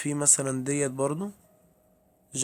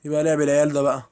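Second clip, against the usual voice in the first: louder, fed-up outburst at the game; exasperated complaint; 8 dB louder, faster than usual. Real, not acted. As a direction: protest at cheap scares. Annoyed at game's jump scares. (اعتراض متضايق بصوت عالي)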